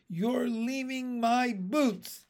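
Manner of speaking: high, slow wail of protest. A narrator's reading. Girl protests to the boy carrying her, wailing. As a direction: stretch it out in dismay. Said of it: "she wailed".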